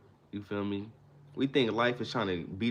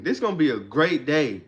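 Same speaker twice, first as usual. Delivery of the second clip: with conviction; 2 semitones higher, 5 dB louder than usual. Shown as a demonstration. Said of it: "say it with conviction".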